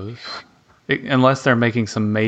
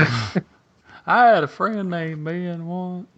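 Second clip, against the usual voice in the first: deadpan joke voice; 7 semitones higher than usual. Acted.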